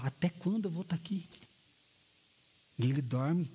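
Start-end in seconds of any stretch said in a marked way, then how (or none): 0.0-1.3 weary grumble. Retold or imitated. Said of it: "você tá pouco se importando".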